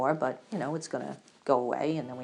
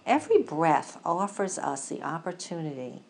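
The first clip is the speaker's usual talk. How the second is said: guided breathing meditation. Acted.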